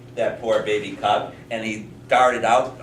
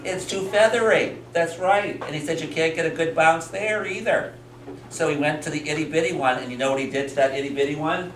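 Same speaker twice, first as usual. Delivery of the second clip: higher-pitched, lively telling for little listeners; storytelling to children; 6 semitones higher than usual. A narrator's reading. Teacher tells children about a bear trying beds, animated storytelling. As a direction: tell it like a bedtime tale, pitched up.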